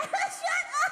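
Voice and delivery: laughing. Real, not acted. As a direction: giggly shut up. Playful retort, laughing.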